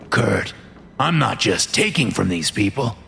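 self-justifying fat man. Acted. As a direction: reason with him as a creepy, self-justifying boss. Narrator voices the fat man.

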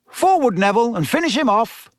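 high, quick call to action; urgent command. A narrator's reading. Teacher sending Neville to finish the boggart, urgent call. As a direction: urge it on briskly, pitch lifted. Teacher urging pupil forward.

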